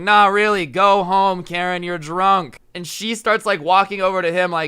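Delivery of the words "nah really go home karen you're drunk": raised voice, slowing at the end; imitated screaming. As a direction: insist loudly to a drunk. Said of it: "screaming over and over again".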